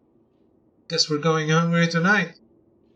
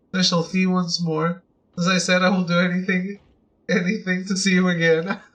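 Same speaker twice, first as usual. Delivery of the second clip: lovesick admirer's letter. Acted. Player reading a fan's love letter aloud, lightly doting and breathless. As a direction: read it like a smitten secret admirer, savouring the flattery.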